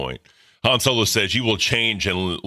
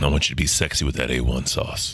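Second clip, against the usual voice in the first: creepy, lower-pitched voice; 5 semitones lower than usual. Showing how a line sounds creepy in his voice, creepy voice. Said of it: "That's creepy".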